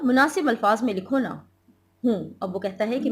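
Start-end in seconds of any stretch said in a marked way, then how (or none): 0.0-1.3 louder, a touch of an impatient husband; lightly pushing the wife. Acted. Reads husband's line in play. (झुंझलाए मियाँ की हल्की आवाज़)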